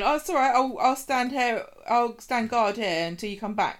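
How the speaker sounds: high, eager loyal puppy. Retold or imitated. Host voicing John as a loyal puppy, eager and high. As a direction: brightly promise to wait, lightly voiced.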